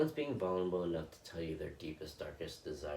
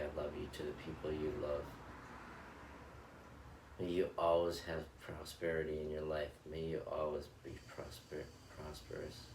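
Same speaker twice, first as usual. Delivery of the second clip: guided loving-kindness meditation. Acted. Meditation host blessing her viewers in a calm, measured recitation. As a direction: bless each listener gently, line by line.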